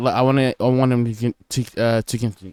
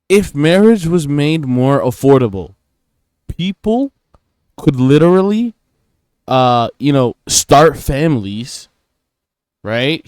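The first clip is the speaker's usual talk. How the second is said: excited; 2 semitones higher, 5 dB louder than usual. Real, not acted. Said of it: "Hear me out. Let me cook".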